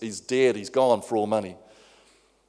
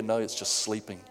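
hushed, softened voice, not a true whisper; gentle mock whisper; 3 semitones lower, 7 dB quieter than usual. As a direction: say it softly, as if into someone's ear. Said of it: "Jesus whispers in your ear".

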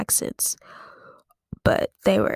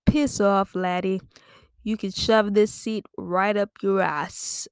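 half-hearted mock-Irish retort; bad Irish accent; slower than usual. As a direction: attempt a slow Irish telling-off. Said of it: "I don't know how to do an Irish accent".

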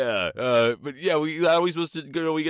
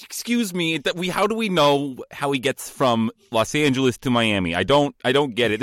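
nerd voice. Acted. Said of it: "This was trying to be a nerd voice, but now I'm kind of like a Goomba guy".

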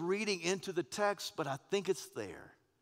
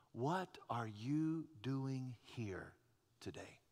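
hushed question; 4 semitones lower, 7 dB quieter, much slower than usual. Shown as a demonstration. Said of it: "same question God asked".

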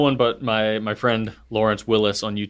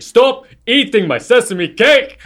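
much higher, louder, slow yell; yelled film quote, slower; mock yell; 11 semitones higher, 8 dB louder, slower than usual. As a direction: shout the line, dragging it out. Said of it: "he starts to yell".

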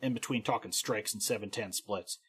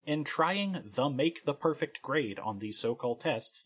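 incredulous reread; 3 semitones higher, slower than usual. Acted. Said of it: "Yes, I did read that correctly".

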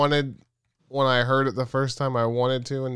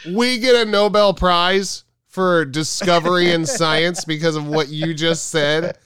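exasperated mock rant, raised pitch; mad scientist outburst; 4 semitones higher, 3 dB louder than usual. Imagined scientist scolding two idiots who saved humanity, mock angry. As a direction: spit out the insults, slowing on them. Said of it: "They're, like, mad about it".

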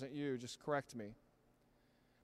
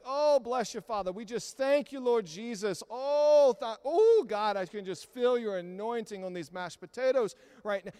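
overloud prayer; 4 semitones higher, 7 dB louder than usual. Retold or imitated. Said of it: "talking at, like, a level ten".

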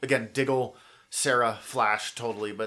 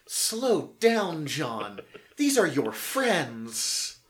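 high, drawn-out pleading on key words; mock urgent plea; 4 semitones higher, 4 dB louder, much slower than usual. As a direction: act out stopping a friend, slowing on the last words. Acted out plea to John.

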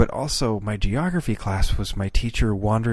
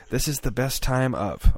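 adding one word, recited; staccato; 4 semitones higher than usual. Retold or imitated. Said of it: "one word at a time".

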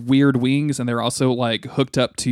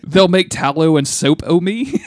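high, loud Irish whale voice; Irish accent; 5 semitones higher, 5 dB louder than usual. Retold or imitated. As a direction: belt it out in a comic Irish brogue.

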